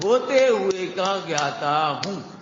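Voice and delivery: "होते हुए का ज्ञाता हूं" spoken very slowly, word by word; slow recited mantra. Shown as a demonstration. Preacher teaching the congregation a line to memorize, slow and deliberate. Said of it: "इसमें तो रट लो बिल्कुल".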